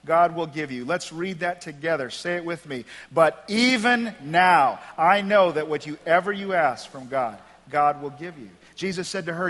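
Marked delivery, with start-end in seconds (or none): 0.0-0.8 louder, lifted declaration of faith; contrasting hope. Acted. Martha to Jesus after her frustration, now full of faith. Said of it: "look at the difference". 3.1-8.5 leading a recitation. Shown as a demonstration. Congregation reads it together, led slowly.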